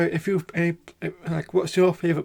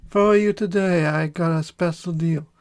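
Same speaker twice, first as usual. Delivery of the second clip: a lightly put-on Italian salesman; mock Italian barber; Italian accent; 3 dB louder than usual.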